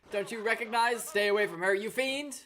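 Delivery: lightly voiced heroic indignation; host scolding a creature to protect someone; protective host. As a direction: defend her like a hammy hero. Reading the host's lines.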